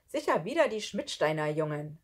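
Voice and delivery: a hint of an annoyed grouch; grumbling man. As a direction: grumble about those boys. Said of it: "brummelte Arthur".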